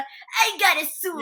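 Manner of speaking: high, slow put-on tough-guy drawl; slow, high mock Kuwabara bit; Kuwabara impression. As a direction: ham up a slow, high brawler voice. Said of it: "Here's my impression of Kuwabara".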